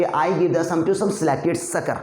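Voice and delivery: very slow, every s-sound carefully separated; slow tongue twister. Shown as a demonstration. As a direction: spell out the s-sounds one by one. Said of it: "मैंने खुद innovate किया है". (बहुत धीमे, हर स को अलग करके)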